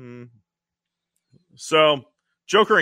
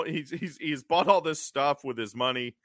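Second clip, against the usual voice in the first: usual speaking voice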